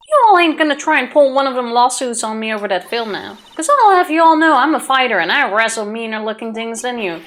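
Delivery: a hint of a southern brawler's threat; lightly drawled country boast; southern tough NPC.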